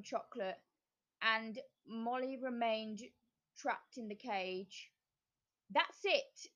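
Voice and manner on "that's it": high gleeful witch; triumphant. A narrator's reading. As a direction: crow with delight. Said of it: "said the witch".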